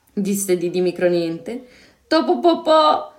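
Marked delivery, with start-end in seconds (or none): 2.1-3.1 high, loud, beaming cry; radiant exclamation. A narrator's reading. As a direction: shout it with glee. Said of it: "esclamò Zeno raggiante". (esclamazione raggiante)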